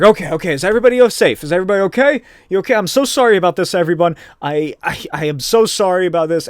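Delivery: mock-frantic reassurance; flustered apology. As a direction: anxiously check on a crowd, acted. Hero checks and apologizes to crowd.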